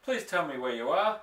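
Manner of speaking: rising, desperate high begging; plead, voice climbing toward tears; trembly pleading. A narrator's reading. Lost boy begging his father to answer, trembly and rising. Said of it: "my voice began to go all trembly".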